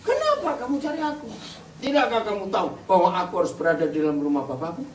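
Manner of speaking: mild exasperated outburst, starting high; pent-up youth answering back, only mildly heated; a touch of indignation, high then settling; Yesus. Shown as a demonstration. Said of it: "Berarti sudah meledak itu Tuhan Yesus".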